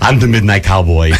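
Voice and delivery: low-pitched Austrian-accented action star impression; Arnold Schwarzenegger. Host imagines the rival actor in the role, Schwarzenegger impression. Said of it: "was Arnold Schwarzenegger".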